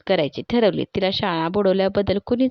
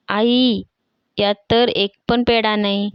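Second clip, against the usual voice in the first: shouting to mother; 4 dB louder, slower than usual. Acted. Leela shouting to mother about the empty box. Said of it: "म्हणून ती ओरडली".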